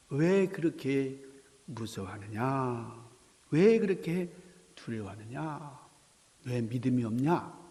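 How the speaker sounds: 느리고 나직하게 타이르기; 끝을 부드럽게 늘이며 위로하듯; 달래는 음성. Acted. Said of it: "살살 어린애를 달래시는 것 같은 그런 음성". (살살 달래는 주님의 목소리)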